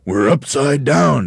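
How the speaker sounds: high, loud and drawn out; horrified gasp. A narrator's reading. Mr Twit realises he is upended, gasping. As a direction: gasp it slowly in dawning horror. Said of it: "gasped Mister Twit".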